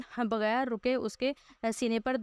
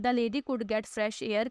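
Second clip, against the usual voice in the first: very slow reading aloud; much slower than usual. Shown as a demonstration. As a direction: spell the English out slowly, word by word. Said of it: "teacher reads the English text".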